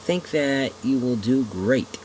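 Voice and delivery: put-on slow chuckling old man. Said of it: "with a hint of a chuckle in his voice".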